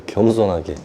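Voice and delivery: 겸손하게 repeated softly, falling; 겸손하게 murmured low as a closing echo. Shown as a demonstration. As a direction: drop 겸손하게 to a quiet afterthought. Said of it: "겸손하게 가야 돼".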